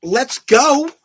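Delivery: lightly hammed rallying call; mocking the line yet again in a loud voice; mock battle cry. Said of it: "that speech has been repeated".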